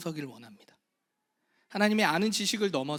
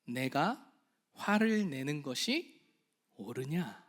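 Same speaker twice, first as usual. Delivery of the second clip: gentle question; 3 semitones lower, 3 dB quieter, much slower than usual. Acted. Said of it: "하나님이 말씀하십니다".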